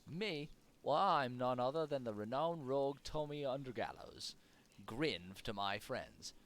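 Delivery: put-on swaggering rogue in a wobbly British-Irish-Australian accent; silly mixed accent. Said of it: "I'm not gonna do that s-, that silly accent anymore".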